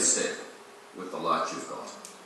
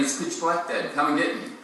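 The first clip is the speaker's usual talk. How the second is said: higher, a touch of tearful pleading; understated child's cry, pitched up; 5 semitones higher than usual. Acted. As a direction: son begging his father, mildly tearful. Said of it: "he starts crying again".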